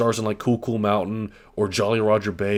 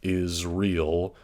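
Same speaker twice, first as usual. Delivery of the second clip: slow reading; much slower than usual. Shown as a demonstration. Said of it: "you can see the kinda cursive".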